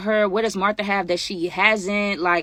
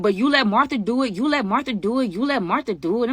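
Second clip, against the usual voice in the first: lightly voiced, higher childish pleading; childish whine; 4 semitones higher than usual. Friend mimics Tay pleading like a child, higher mock whine. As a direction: whine it a little like a sulky kid. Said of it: "like a child".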